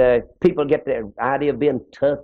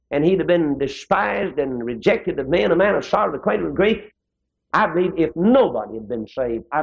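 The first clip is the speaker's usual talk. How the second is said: preaching; 3 semitones higher than usual. Acted. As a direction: lift each phrase higher like a revival preacher. Preacher builds to full force.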